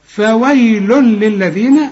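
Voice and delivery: فويل للذين slowly, ending "lul-lil" with no hum; merge without nasal. Shown as a demonstration. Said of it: "تنوين وبعده لام أو راء ما تغنش".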